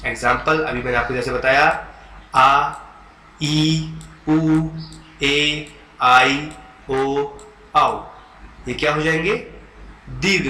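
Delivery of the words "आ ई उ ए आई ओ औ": आ ई उ ए ओ औ each held long; long vowels. Shown as a demonstration. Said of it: "दीर्घ स्वर कहा जाता है".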